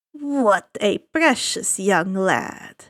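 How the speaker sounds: slow, low, smooth villain voice; suave ferryman. Acted. Ferryman of the dead greeting the boy, slow and silky. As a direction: savor each word like a sly host.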